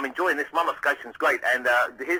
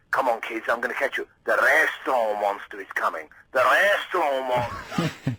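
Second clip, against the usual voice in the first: hammed-up "restaurant" monster, slow at the end; a dad overdoing it chasing kids; overdone playful dad; slower than usual. Dad chasing his kids round the restaurant, overdone playful voice. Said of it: "overdoing it all because he was saying".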